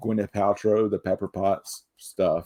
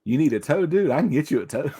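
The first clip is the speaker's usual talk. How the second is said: Lebowski quote; 4 semitones higher, faster than usual. Retold or imitated. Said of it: "The Big Lebowski".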